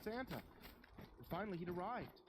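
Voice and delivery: high delighted cry of recognition; thrilled child. Acted. Little girl thrilled that Santa finally came. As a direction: burst out with joy.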